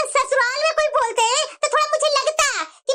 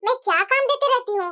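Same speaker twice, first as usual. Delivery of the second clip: a hint of a lower, scolding mother-in-law voice; lightly voiced mother-in-law; 3 semitones lower than usual.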